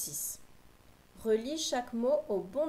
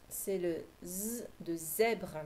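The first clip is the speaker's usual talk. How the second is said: slow stressed model; 3 semitones lower, slower than usual. Shown as a demonstration. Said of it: "j'entends Z à la fin".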